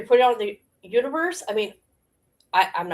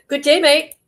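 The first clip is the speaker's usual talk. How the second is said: mock Aussie; 6 semitones higher, 7 dB louder than usual. Australian-style sign-off.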